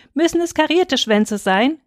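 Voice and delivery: put-on high, tentative little girl; cautious little sister. A narrator's reading. Little sister Lena asking father, high and cautious. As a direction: ask carefully, like a small child. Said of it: "fragte Lena ... vorsichtig".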